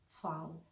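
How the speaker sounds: फाओ with f; German V. Shown as a demonstration. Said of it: "normal English में वी". (German में फाओ)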